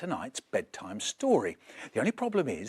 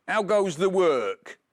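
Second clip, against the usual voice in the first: farmer calling; 4 semitones higher, 5 dB louder than usual. Acted. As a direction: bellow it down like a lazy farmer. Farmer calls again.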